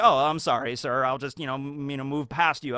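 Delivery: low, softening, hesitant politeness; mock-polite apology. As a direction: imitate a meek, courteous excuse-me. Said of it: "Kimimaro is very polite".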